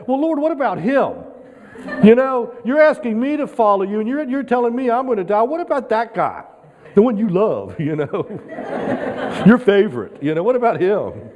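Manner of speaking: whiny Peter. Retold or imitated. Peter whining about John.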